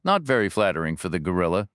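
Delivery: quick, dry aside about the gorilla; dry joke. Acted. Reacher jokes back at the agent, quick and dry. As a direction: toss off the joke fast and dry. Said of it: "Reacher replied".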